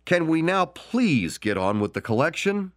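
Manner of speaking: high, exasperated mock shout; a hammed-up impatient heckler. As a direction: demand the real auction begin. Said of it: "A man sitting on the second row shouted".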